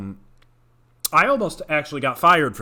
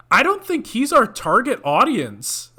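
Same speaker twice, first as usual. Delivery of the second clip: deadpan sass; 8 semitones higher, 4 dB louder, slower than usual. Retold or imitated. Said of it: "and I go".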